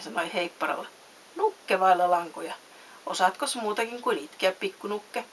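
lively storybook reading with distinct dialogue; measured, animated storytelling; story narration. A narrator's reading. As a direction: read a bedtime story expressively. Reads a story aloud.

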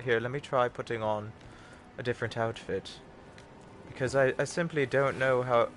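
lightly put-on British butler; British butler accent. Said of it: "taken on his accent".

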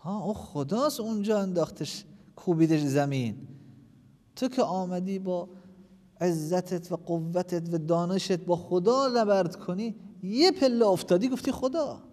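loud, slow, driving sermon voice; preacher scolds the fallen speaker, loudly; fiery preaching. Acted. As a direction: hammer the point home to the congregation. Preaching at full force.

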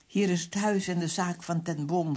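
formal telephone greeting; as formal as possible. A narrator's reading. Narrator answering under guard, as formal as possible. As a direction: answer the phone with stiff formality. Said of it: "zo formeel als ik maar durfde".

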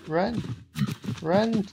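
urgent high yell; panicked run call. Real, not acted. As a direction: shout to flee. Chased by golem.

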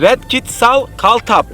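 slow, careful gibberish; backwards speech. Shown as a demonstration. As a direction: spell out a reversed sentence slowly. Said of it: "cümlelerin tersini ezberliyoruz".

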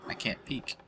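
breathy hushed whisper. Real, not acted. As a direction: whisper so nobody hears. Sneaking past, hiding from view.

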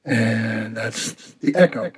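heavy reverb on the voice; echo effect. Real, not acted. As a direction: talk through a karaoke echo. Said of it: "So now we've got an echo".

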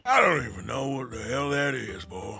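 lightly voiced Western cowpoke; cowboy voice.

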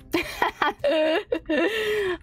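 long chuckling laugh; giggling fit. Real, not acted. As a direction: let a real laugh roll out. Streamer laughs between game lines.

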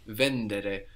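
vendere said slowly with the stress on VEN; teacher's slow model of vendere. Shown as a demonstration. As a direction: slowly lean on the first syllable of vendere. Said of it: "The accent".

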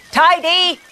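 robot lumbering after the helpers; robot crying out. A narrator's reading. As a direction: chase them with a cry. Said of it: "cried the Wendell Bot".

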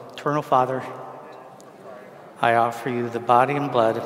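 projected prayer in separate phrases with long pauses; slow recitation. Shown as a demonstration. Priest leading congregation to repeat the prayer, slow and deliberate. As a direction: lead it slowly, phrase by measured phrase. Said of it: "when I say it slowly".

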